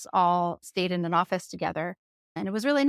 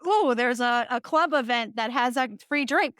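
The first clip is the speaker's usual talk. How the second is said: raised, eager little "ooh"; mock excited discovery; 4 semitones higher than usual. Grad student spotting free drinks at school events, playfully excited. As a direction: act out spotting a freebie.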